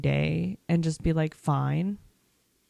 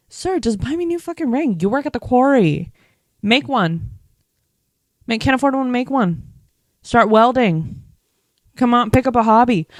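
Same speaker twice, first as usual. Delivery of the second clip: mock exasperated rant; 5 semitones higher, 6 dB louder than usual. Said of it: "I'd be like".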